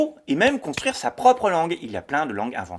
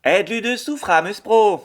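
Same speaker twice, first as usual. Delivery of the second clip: louder Danish with a French accent; French learner repeating; 6 semitones higher, 7 dB louder than usual. Shown as a demonstration. Host repeats the Danish, French-accented. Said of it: "écouter des langues".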